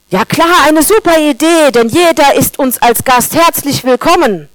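oversell it with heavy irony; sarcastic grain cheering a bad idea.

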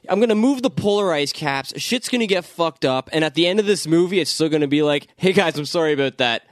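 mock the villain's grand plan; mock Apocalypse voice. Voicing Apocalypse mockingly.

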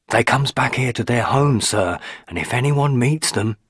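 lightly voiced old country woman, ominous; a hint of a superstitious servant hinting at dark deeds; old housekeeper hinting darkly. A narrator's reading. Mrs Dorman voiced.

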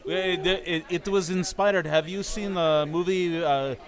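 halting, put-on Russian accent. Shown as a demonstration. Performer explains his inspiration to castmates, slow Russian accent. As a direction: grope for words in a mock Russian accent. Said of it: "That's what inspires your Russian accent?".

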